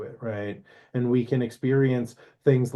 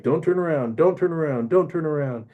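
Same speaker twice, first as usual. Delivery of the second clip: higher, insistent repeated self-reminder; self-coaching Orpheus; 4 semitones higher than usual. Retold or imitated. Orpheus steels himself against looking back, lightly acted urgency. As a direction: imitate a man urgently talking himself through it. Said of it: "And he's like".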